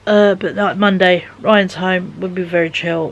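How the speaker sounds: ordinary talk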